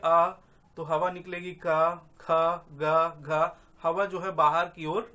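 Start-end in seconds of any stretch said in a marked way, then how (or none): 0.0-0.3 आ sounded on its own; स्वर का उच्चारण. Shown as a demonstration. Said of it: "आप करके देखिए". 1.5-3.6 का, खा, गा, घा as separate open syllables; व्यंजनों का उच्चारण. Shown as a demonstration. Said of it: "आप करके देखिए".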